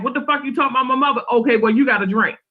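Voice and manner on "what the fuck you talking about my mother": mock angry retort. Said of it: "they might get mad and be like".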